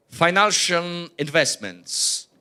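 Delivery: slow, spaced-out topic heading; slow delivery. Real, not acted. Presenter introducing financial investments to an audience, slowly. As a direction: announce the heading slowly and deliberately. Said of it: "speaking too slow".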